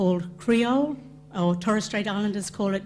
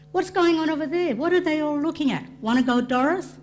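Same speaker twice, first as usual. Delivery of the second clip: put-on higher, eager teen voice; curious teenager; 7 semitones higher than usual. Cartoon Koori teen calling her friend Doris, higher and eager. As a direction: lift the voice like a nosy young girl. Reading a cartoon teen's lines.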